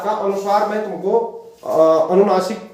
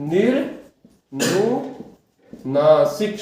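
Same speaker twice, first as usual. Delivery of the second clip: निर्नुनासिक stretched very slowly, every syllable held; निर्नुनासिक को बहुत धीरे खींचकर बोलना; slow drawn-out demo; 3 semitones lower, much slower than usual. Shown as a demonstration. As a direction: draw out निर्नुनासिक for the class to repeat. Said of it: "वर्ण कहते हैं".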